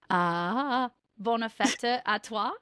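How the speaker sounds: "bonne fête à toi" said slowly in French; French on request. Shown as a demonstration. Showing a friend her French birthday wish, slow careful French. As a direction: stretch out "bonne fête à toi", ending on a rise. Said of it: "How do you say it?".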